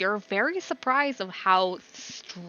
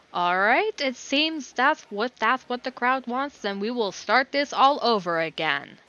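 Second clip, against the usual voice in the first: announcer addressing the crowd; 5 semitones higher, 3 dB louder than usual. Acted. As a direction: announce the restart to the arena.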